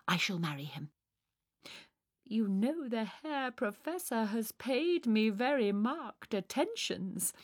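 lightly voiced self-important romantic heroine; musing Fräulein. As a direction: confide grand plans with theatrical earnestness. Sonia muses on marriage.

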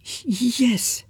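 whispered, stammering yes; timid whisper; soft. A narrator's reading. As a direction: barely breathe the yes. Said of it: "says Brother Martin softly".

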